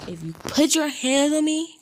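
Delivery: a real heated warning; fired-up warning. Real, not acted. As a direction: warn them hard and loud. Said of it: "like I said".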